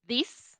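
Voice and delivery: "this" with the tongue between the teeth; demo of this. Shown as a demonstration. Teacher showing her tongue position on "this". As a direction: say "this" short and dry, tongue showing. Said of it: "yo muestro la lengua".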